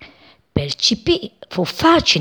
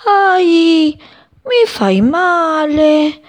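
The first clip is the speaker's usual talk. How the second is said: high, tiny cry of pain; a little flower squeaking in pain; 11 semitones higher, 5 dB louder, much slower than usual. Acted. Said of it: "una vocina disse". (vocina acuta e dolorante)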